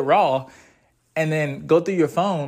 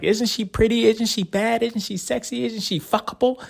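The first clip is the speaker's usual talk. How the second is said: eager friend; 6 semitones higher than usual. Retold or imitated. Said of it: "and it's like".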